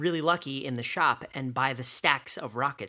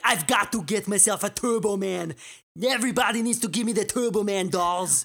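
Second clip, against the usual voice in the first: raised, put-on action-hero voice; Arnold impression; 4 semitones higher than usual. Cohost imitates Arnold hunting a Turbo Man, in a raised action-hero voice. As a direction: bark it like a desperate Schwarzenegger dad. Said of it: "he's in Jingle All the Way and he's like".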